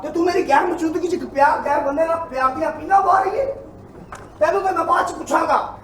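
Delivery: mildly heated wronged-husband tirade; outrage demonstration. Shown as a demonstration. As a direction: reproach the wife as a betrayed husband. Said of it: "मैं तैनूं दसना गैरत किवें जागदी". (ਠੱਗੇ ਗਏ ਪਤੀ ਦਾ ਨਾਟਕੀ ਉਲਾਂਭਾ)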